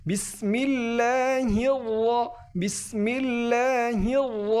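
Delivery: বিসমিল্লাহির র with a thick, full র; thick, full-mouthed র after বিসমিল্লাহির; heavy ra. Shown as a demonstration. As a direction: stretch বিসমিল্লাহির slowly into a heavy র. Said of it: "একটু মোটা করে উচ্চারণ করতে হবে".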